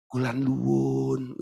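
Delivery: slow, soft, deferential greeting; a meek Javanese excuse-me; polite Javanese. Retold or imitated. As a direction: ease it out humbly and gently. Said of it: "Kalau ngomong juga begitu".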